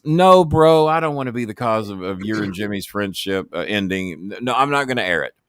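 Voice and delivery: earnest host backing off; lightly voiced Russo. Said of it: "He goes".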